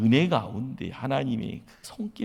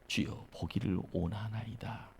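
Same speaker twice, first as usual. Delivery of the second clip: faint, softer, shy plea; dying voice; 7 dB quieter than usual. Retold or imitated. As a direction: barely whisper the plea, embarrassed. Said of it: "다 죽어가는 목소리로요". (다 죽어가는 목소리)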